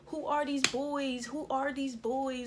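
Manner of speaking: high, slow incredulous mom questions; demanding mom. Retold or imitated. Friend's mom demanding who the boys are, high incredulous. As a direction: grill them like an angry parent.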